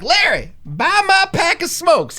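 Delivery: high, slow nagging woman voice, laughing; lady begging Larry. Retold or imitated. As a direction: whine it up high like a pushy neighbor. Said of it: "some lady's like".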